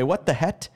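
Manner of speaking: "het" with a T in place of "heck"; child's mispronunciation. Retold or imitated. Friend's little son who couldn't say heck, child's mispronunciation of "het". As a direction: say "het", ending on a clean T. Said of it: "'Cause he couldn't say heck".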